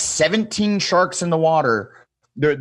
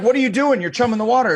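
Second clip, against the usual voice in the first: mock alarmed guide; 8 semitones higher, 4 dB louder, faster than usual. Guide scolds him for puking.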